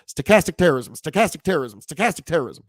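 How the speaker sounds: tongue-twister repeats run together; punchy back-to-back repeats, no breaks; three times fast. Shown as a demonstration. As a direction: rattle off the phrase like a tongue twister. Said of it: "say that three times fast".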